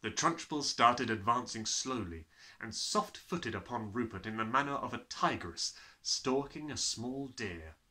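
ordinary delivery, nothing marked

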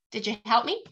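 normal talking voice

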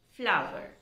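"Flower" in two clear beats, FLAU-ver; corrected pronunciation repeated. Shown as a demonstration. Teacher repeats the right form for learners, "Flower" as two-syllable FLAU-ver. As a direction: say "Flower" with a full "ow" glide and a second syllable. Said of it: "It is flower".

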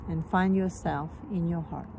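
calm meditation guide, long pauses between phrases; guided meditation. Real, not acted. Teacher guiding listeners into their hearts, calm meditation voice. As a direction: gently lead them inward, unhurried.

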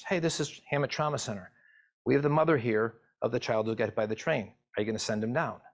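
breezy, chirpy phone greeting, lightly done; perky triage nurse. Retold or imitated. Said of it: "almost like a perky triage nurse".

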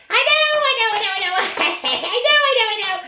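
high, giggly witch agreement; excited cackly witch; gleeful witch. Acted. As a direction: chirp it like a giddy witch.

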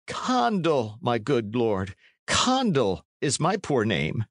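put-on high, quavering plea of an old man; pleading old man. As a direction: beg the lord in a high frail voice. Old man correcting knight.

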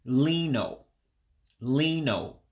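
lino said lee-noh; Igbo pronunciation. Shown as a demonstration. Teaching viewers the Igbo word for line, careful pronunciation. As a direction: draw out the ee in lino, ending on a round oh. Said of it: "The actual regular I character has an E sound".

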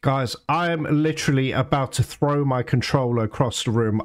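low, contained irritation rising at the end; pissed off. Real, not acted. Gamer complaining to viewers about armored vehicle, pissed off. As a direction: start low and tight, lift into exasperation. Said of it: "I'm getting so pissed".

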